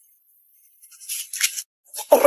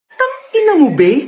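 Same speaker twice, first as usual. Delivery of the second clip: angry outburst. Acted. Friend insulted by ugly photo.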